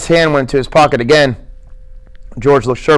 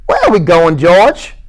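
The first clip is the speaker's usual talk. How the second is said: high simple-minded voice, pleading; lightly raised childlike Lenny; 3 semitones higher than usual. Acted. Lenny's held voice.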